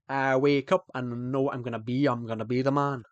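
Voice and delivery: sung-lyric words in a Scottish accent. Shown as a demonstration. Streamer shows off for chat, Scottish accent. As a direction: put on a showy Scots accent. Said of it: "I can do Scottish".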